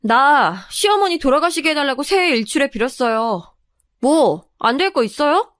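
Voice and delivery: chin-up, unapologetic declaration; brazen defiance. Acted. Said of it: "뻔뻔한 표정을 한 채 턱을 들고서".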